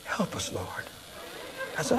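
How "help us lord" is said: soft whispered plea to God; whispered prayer. Retold or imitated. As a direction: breathe the prayer out, barely voiced. Desperate prayer under his breath.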